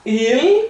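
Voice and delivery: il said short, with the L held against the roof of the mouth; a crisp French il, ending on the L. Shown as a demonstration. Teacher modelling the French word for beginners, a clean il. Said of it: "com dois L's".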